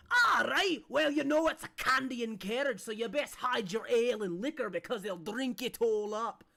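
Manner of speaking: big booming call across the courtyard; loud gruff NPC voice. Acted. Greeter shouting at the arriving carriage, booming voice. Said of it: "you hear a voice that goes".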